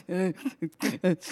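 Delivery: high, loud mock sobs; imitated crying. Driver crying as somebody pulls up, hammed-up sobs. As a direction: fake a cry bursting out. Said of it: "cry about this now".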